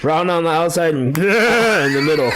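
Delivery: laughing through the words; words riding on a laugh. Real, not acted. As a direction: giggle out the punchline. Joking about rare steak, laughing.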